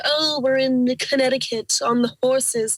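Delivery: lightly put-on snooty voice; mock hoity-toity. Guest imagining snobs at a polo tournament, mildly mock hoity-toity. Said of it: "like, hoity-toity".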